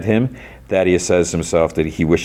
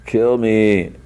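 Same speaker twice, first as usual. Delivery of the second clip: drawn-out, slightly raised groaning plea; distorted voice; 4 semitones higher than usual. Retold or imitated. Severed head begs Lucy, distorted drawn-out voice. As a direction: imitate a distorted, barely living head. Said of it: "in a distorted voice".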